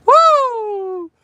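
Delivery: very high, loud sustained woo; whoop. Real, not acted. Streamer recovering from his laughing fit, high whoop. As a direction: let out a long high whoop.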